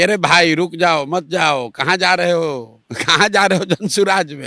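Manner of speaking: half-laughing mock plea to stay; pleading in jest, a laugh breaking in. Party men begging members not to leave, mock pleading with a laugh. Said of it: "उहे लोग निकालता है कि".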